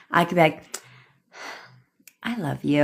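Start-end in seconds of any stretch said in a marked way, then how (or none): 2.2-2.8 sincere I love you. Shown as a demonstration. Coach demonstrating one meaning of I love you, tender. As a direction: say it gently, as if meant. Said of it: "can have a million different meanings".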